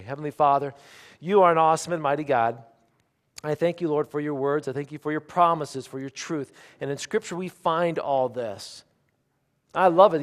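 loud, earnest public prayer; fervent prayer. Real, not acted. Preacher thanking the Lord for His word before the church, fervent prayer. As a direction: praise God aloud with energy.

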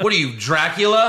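mock villain voice. Imitating Tommy Lee Jones.

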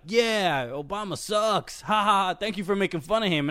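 a hint of a whooping crowd member; imitated cheering audience. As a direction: lightly play a gleeful heckling fan. Mimics conservative audience cheering the joke.

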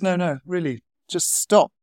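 acted firm insistence; insistent psychiatrist. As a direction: cut the patient off and insist. Psychiatrist insists, cutting patient off.

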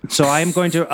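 normal talking voice

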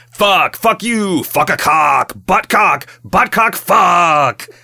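high, loud yelling of curses. Retold or imitated. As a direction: bellow it out like a raging game hero. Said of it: "Like, just yelling that".

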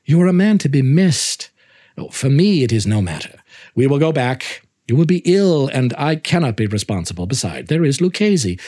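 a lightly voiced worried companion; Montresor pleading. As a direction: press him to turn back, feigning concern. Narrator voices Montresor urging return.

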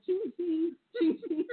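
chiming ching like a little bike bell; bike bell imitation. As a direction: ring it out like a tiny bell. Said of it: "That's what his bell sounds like".

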